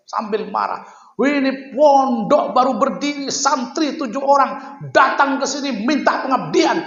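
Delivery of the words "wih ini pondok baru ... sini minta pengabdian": put-on higher, indignant scolding of a young teacher; a kiai scolding the founder who came asking for teachers, imitated indignantly; retold angry scolding. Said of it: "Beliau berdiri sambil marah kepada saya".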